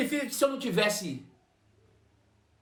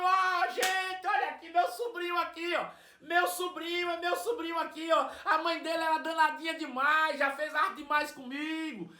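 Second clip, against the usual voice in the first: much higher, breathless, gushing voice; excited old aunt; 7 semitones higher than usual. Retold or imitated. Old woman presenting her nephew to the passengers, high excited gushing. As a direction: show off the nephew to the whole bus. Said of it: "ela fez assim".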